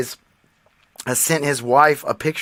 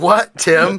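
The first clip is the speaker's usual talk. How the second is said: ordinary delivery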